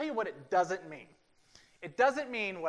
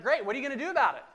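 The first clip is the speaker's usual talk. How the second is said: pushy friends; 8 semitones higher, 10 dB louder, much faster than usual. Retold or imitated. Friends pushing Doug.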